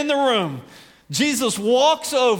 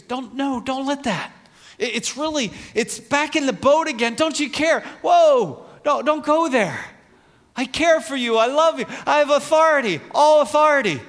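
Jesus reassuring; 5 semitones higher than usual. Retold or imitated. Jesus voiced calming storm.

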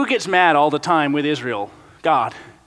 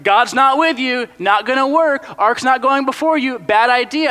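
higher, louder warning; warning onlookers; 7 semitones higher, 4 dB louder than usual. Pretend. Everyone warning the people God isn't with them, high and loud. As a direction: warn them off firmly. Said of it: "everyone's like".

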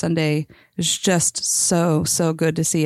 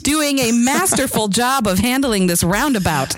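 clipping distorted mic; 2 semitones higher than usual. Real, not acted. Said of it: "I think your mic's peaking".

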